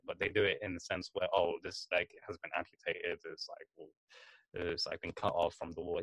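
a hint of a rambling old Englishman; old British taxidermist. Imitating the taxidermist on the documentary, soft and rambling. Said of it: "he's like".

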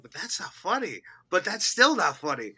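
rising panic into a shout; panicking. Retold or imitated. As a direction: spiral from doubt into a panicked yell. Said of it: "you're like".

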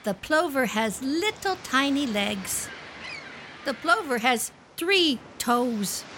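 slow, repetitive, sing-song naming of birds for a little one; child-directed speech. Acted. Wife plays beach mother showing her child the birds, in lively child-directed speech. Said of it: "a really great use of child-directed speech".

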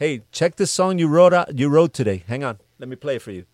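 put-on the hustling young writer calls the boss, loud and eager; excited pitch call. Mimicking himself calling label boss.

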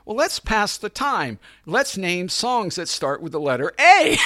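high, loud, chirpy imitation; mock sweetness. Sweet actress passing time in the car, imitated sweetness. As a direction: imitate her sweetly proposing a game. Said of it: "she's so sweet".

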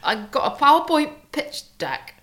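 hammed-up northern English impression; Dominic Cummings. Wife impersonates Dominic Cummings explaining his absence, northern accent. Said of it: "I didn't think that Dominic Cummings".

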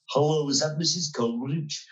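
a hint of an official phoning a household; hospital official's voice. Hospital clerk rings a patient's wife, lightly put-on official voice. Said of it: "am I going to do my voice".

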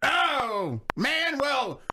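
put-on flustered old man shout. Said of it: "Let me get in the character".

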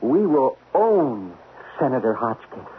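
scheming boast. Acted. Scheming boast to spy chief.

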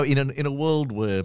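in a world where, trailer voice; movie trailer voice. Shown as a demonstration. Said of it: "I sound like a trailer".

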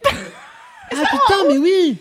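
it suddenly clicks, say it big; sudden realization. Real, not acted.

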